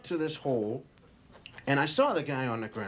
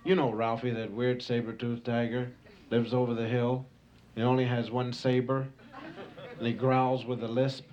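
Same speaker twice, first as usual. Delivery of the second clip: saber-toothed tigers gossiping. Acted. Comic tiger sounding off to another tiger, lightly voiced.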